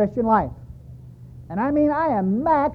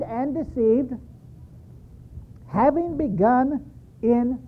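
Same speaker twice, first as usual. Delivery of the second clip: scripture reading. Acted. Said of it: "Galatians three three".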